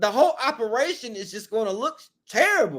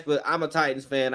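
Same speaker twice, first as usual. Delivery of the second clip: sad; 6 semitones lower, 4 dB quieter than usual. Shown as a demonstration. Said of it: "I had to say it sad".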